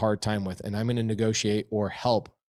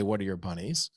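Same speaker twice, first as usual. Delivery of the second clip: softer, inward version of the question; under the breath; 3 semitones lower, 5 dB quieter than usual. Retold or imitated. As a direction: private thought murmured. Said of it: "I don't literally say".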